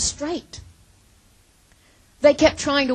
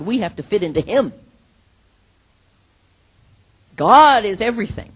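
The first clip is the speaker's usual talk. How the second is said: voiced lower, building to a loud cry on God is everything; prophet's proclamation; 4 semitones lower, 5 dB louder than usual. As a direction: proclaim it like a prophet rebuking the people. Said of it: "But the prophets say".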